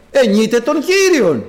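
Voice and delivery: drawn-out, ringing hymn line; slow loud praise. Acted. Preacher reenacting Paul and Silas singing, slow and loud. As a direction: lift it slowly like a chant.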